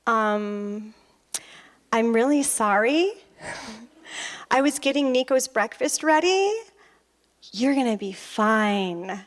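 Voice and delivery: lightly voiced contrite husband; hesitant, halting mock apology; sheepish husband. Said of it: "He's like".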